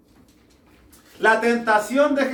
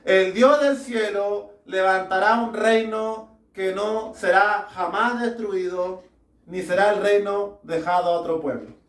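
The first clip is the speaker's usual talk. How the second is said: scripture reading; 2 semitones lower than usual. Real, not acted. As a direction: read each phrase out deliberately, with pauses. Reads scripture aloud to congregation.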